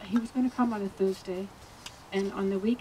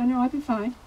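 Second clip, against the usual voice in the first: louder, higher retold refusal; quick mock dismissive reassurance; brushing off concern; 4 semitones higher, 5 dB louder than usual. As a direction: imitate someone insisting there's no need to fuss. Retold friend refusing the doctor.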